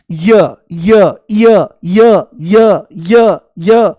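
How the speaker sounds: "य" repeated loud like a stuck record. Shown as a demonstration. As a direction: hammer "य, य, य" over and over as if jammed. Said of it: "जैसे सीढ़ी अटक गई हो".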